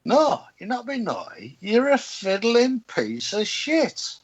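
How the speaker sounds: mock outburst, stretching out the insult; blunt rebuke. Man acting out telling a councillor straight, indignantly. Acted blunt reply to polite wording.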